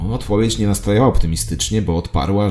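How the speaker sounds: ordinary talk, nothing marked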